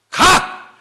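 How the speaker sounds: loud, high one-word shout; abrupt mock bark; angry dismissal. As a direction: send them away in acted exasperation. God dismissing, then turning back.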